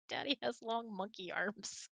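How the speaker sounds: ordinary talk, nothing marked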